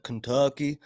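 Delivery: lightly imitated Kentucky lawyer's tagline; Southern accent. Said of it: "basically a Southern accent".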